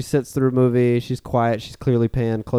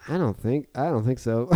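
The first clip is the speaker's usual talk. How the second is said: soft, hesitant mock reluctance; softly imitating doubtful people; mildly doubtful; 5 dB quieter than usual. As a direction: quote a tentative, polite no. Retold reluctant reaction to pitch.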